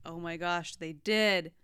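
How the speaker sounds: loud thrilled yes, they really did; excited agreement. Retold or imitated. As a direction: shout it out like a fan vindicated. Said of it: "And I was like".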